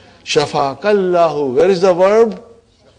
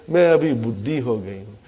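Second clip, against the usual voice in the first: fast, lower mumbled excuse, female student's version; mock excuse; 5 semitones lower, much faster than usual. Teacher mimicking a sister who says she is too old, fast mumble. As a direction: rattle it off like a weak excuse. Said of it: "Yeah, you will say".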